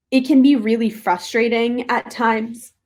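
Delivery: talking through hiccups; hiccuping between words. Real, not acted. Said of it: "Sorry, I have the hiccups now".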